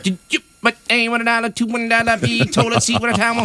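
high rapid auctioneer patter. Retold or imitated. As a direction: rattle it off like an auctioneer. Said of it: "sounded like an auctioneer".

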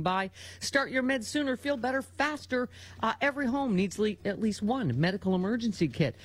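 steady, fluent host-read sponsor pitch; radio ad read. Acted. Host pitching a medical emergency kit to listeners, ad read. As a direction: sell it to the listeners point by point.

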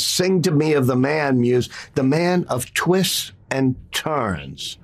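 slow, measured verse reading; poem recital. Retold or imitated. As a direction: recite it as an epic opening. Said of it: "And he says".

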